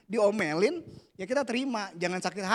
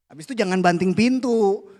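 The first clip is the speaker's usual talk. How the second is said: firm warning; 2 semitones higher, 7 dB louder than usual. Real, not acted. Warning, laughing.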